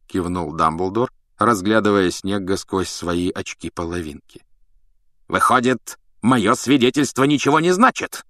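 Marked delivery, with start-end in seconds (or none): 5.3-8.2 understated angry challenge; mild growl. A narrator's reading. Snape offended that his testimony counts for nothing, growling mildly. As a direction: challenge with a touch of anger. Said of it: "зарычал Снег".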